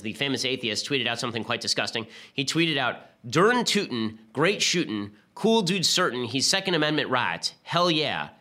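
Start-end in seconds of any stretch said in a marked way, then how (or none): 3.3-8.3 a light put-on Southern accent, mocking the tweet. Host mocks Dawkins's tweet in a light Southern accent. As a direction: read the tweet in a hint of a Southern twang. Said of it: "supposed to be in a Southern accent".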